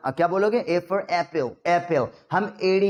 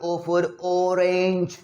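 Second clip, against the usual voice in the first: O for orange, slow, chanted like a rote lesson; a lightly voiced school teacher drilling; imitating a school teacher; much slower than usual. Recalling a teacher drilling children, slow. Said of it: "बेटा बोल".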